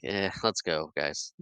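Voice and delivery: mildly deflated, retold with no gusto. George to his gang after losing his gusto, mock deflated. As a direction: let it sag and trail down, imitating lost excitement. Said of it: "loses everything, ... gusto and excitement".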